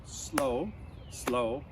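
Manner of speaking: drawn-out demo of slow; chanting the slow beat for kids to copy. Shown as a demonstration. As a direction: stretch the word out, showing the beat. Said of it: "the best way to do that is like this".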